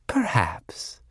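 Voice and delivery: breathy voiceless whisper. Acted. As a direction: breathe the word out, barely voiced. Bonanak dreams of battle, sighing.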